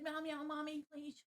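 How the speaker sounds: soft, high begging meows; pleading cat voice. Retold or imitated. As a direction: plead like a kitty to mommy. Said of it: "She said".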